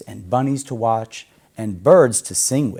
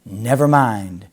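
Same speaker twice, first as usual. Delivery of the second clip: slow, louder, grumbling; wolf grumbling, slow and louder; grumpy; 5 dB louder than usual. Acted. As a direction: grump it out impatiently. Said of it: "grumped the wolf".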